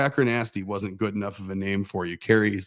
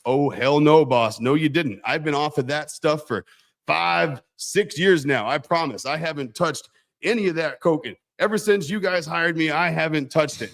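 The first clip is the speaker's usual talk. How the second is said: higher, indignant denial; defensive protest; 4 semitones higher than usual. Retold or imitated. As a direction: plead your innocence, wounded. Employee protests innocence.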